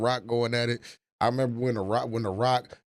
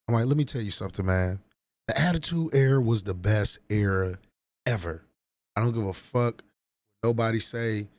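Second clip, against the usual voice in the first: usual speaking voice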